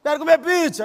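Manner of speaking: put-on pleading child voice; small child begging. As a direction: beg dad for pizza like a little kid. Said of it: "a criança pequena".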